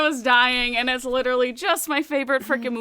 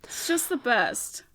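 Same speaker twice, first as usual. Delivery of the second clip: whispered; 5 dB quieter, slower than usual. Real, not acted. Dreamy aside about movie.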